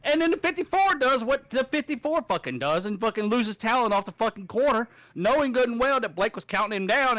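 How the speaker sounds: real exasperation, piling on the complaint; blowing up. Real, not acted. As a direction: vent about the driver who wrecked everyone. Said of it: "see me actually fucking blow up".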